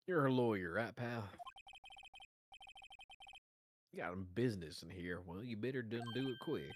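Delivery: lightly voiced country detective; country accent. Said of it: "I gave him a country accent".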